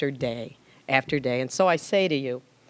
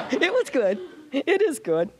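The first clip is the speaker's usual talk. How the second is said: high, tight tearful voice fighting back tears; praising him through real tears; 9 semitones higher than usual. Real, not acted. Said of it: "I'm not crying".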